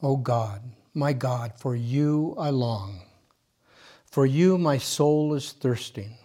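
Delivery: slow, prayerful scripture reading; psalm reading. Acted. Reading the Psalm aloud to the meditators, slow and prayerful. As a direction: read each line slowly, like a prayer.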